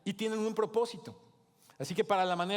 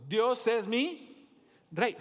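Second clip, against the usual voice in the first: slow, raised declaration of Dios es mi rey; emphatic proclamation; 5 semitones higher, 3 dB louder, much slower than usual. Shown as a demonstration. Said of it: "emphatic proclamation".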